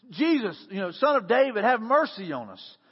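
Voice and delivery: mock cry to someone passing. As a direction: call out for mercy, moderately projected. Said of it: "they start crying out to him".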